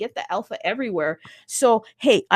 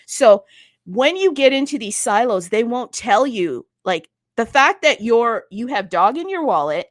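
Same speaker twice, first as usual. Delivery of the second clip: fired up; 3 semitones higher, 6 dB louder than usual. Real, not acted. Pumping up the guest.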